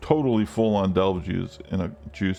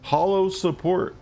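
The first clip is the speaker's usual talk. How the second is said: amazed; 9 semitones higher, much slower than usual. Real, not acted. Sees a new support gem.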